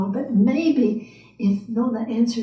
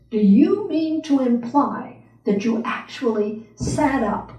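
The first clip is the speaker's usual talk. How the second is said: indignant tirade; 3 dB louder than usual. Acted. A wrinkled, mean old lady scolding Nona, indignant and loud. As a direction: hammer each absurd claim with scorn.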